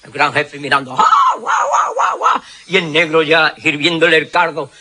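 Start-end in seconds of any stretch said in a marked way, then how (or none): 1.0-2.4 high, hammed-up war whoops; mock tribal whoop. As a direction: whoop like cartoon warriors round the pot. Chief whooping. (aullidos exagerados de indios)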